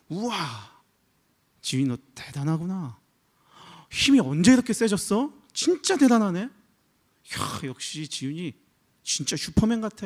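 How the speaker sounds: dad's playful cheering for his daughter; mock amazed praise. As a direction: gush over a child who just won arm wrestling. Dad cheering daughter after armwrestle.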